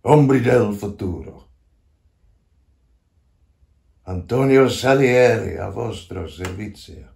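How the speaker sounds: a measured, ringing summons; solemn invocation. Acted. Old composer calls to ghosts of the future, solemn invocation. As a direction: call out to unseen spirits with weight.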